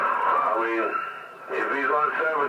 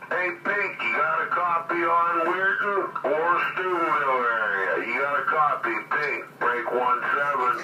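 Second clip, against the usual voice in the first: raised, higher call to a distant listener; higher calling voice, trying to raise Pink; calling out on the radio; 4 semitones higher than usual. Real, not acted. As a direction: hail him over the CB, pitched up.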